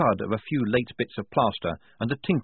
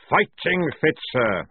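loud barked reply, raised and louder; 6 semitones higher, 4 dB louder, slower than usual. A narrator's reading. Sergeant Jackram answers the general, barking loudly. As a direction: bark it like a sergeant. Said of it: "barked Jackram".

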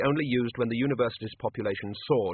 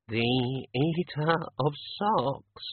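moaning; 3 semitones higher, much slower than usual. Acted. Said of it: "moaned the senior wrangler".

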